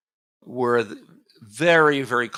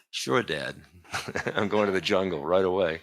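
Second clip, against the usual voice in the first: laughing through a sarcastic sure dad; mock modern son; 2 semitones lower than usual. Modern son answering father about exile, laughing mock compliance. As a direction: chuckle it out like a sulky teenager. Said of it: "Things don't work quite that way now".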